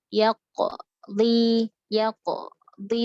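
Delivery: yaqdi with a gap after the q; wrong broken yaqdi. Shown as a demonstration. Teacher demonstrating the wrong broken yaqdi. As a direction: break yaqdi with a pause after the q. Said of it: "terputus suaranya".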